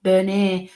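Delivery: Bernie as "ber-NAY"; French-sounding name. Retold or imitated. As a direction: give Bernie a French "ay" ending. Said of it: "Sounds French to me".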